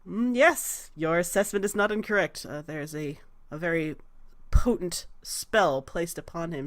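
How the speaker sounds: composed, deliberate regal voice; lightly voiced queen, pausing over her judgement; measured demigoddess. Goddess assessing Salvador's spell, calm and measured.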